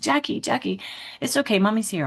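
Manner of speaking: high, lightly acted comforting voice; retold motherly reassurance; soothing mom. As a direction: soothe a hurt toddler. Mom comforting crying son.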